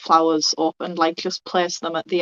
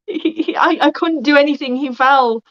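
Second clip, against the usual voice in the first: raised-pitch, faltering confession; distraught stammer; 7 semitones higher, 4 dB louder than usual. Acted. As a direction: stammer out the terrible news. Player stammers news of boy's fall.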